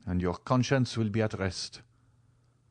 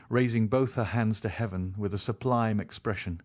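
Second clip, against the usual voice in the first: plain reading voice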